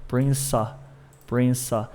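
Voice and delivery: "Prince" joined to O as prin-so; linked S. Shown as a demonstration. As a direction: carry the S of "Prince" into the O. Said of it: "som de S lá no O".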